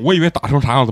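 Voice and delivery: usual speaking voice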